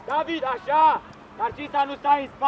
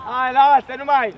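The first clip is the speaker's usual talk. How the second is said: coach shout; 5 dB louder than usual. Real, not acted. Coach yelling at players.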